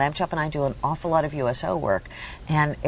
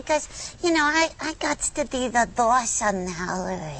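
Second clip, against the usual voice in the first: high sassy lamb voice; bossy little puppet; 4 semitones higher than usual. Pretend. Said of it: "She's a sassy little thing".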